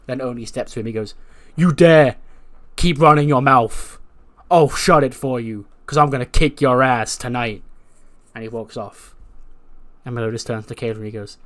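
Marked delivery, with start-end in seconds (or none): 1.6-7.6 mock threat. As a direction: bark it at him like a brawler. Oney threatens Carmelo.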